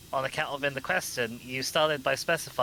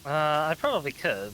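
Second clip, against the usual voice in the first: hesitant; 3 dB louder than usual. Real, not acted. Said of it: "You sound so unsure".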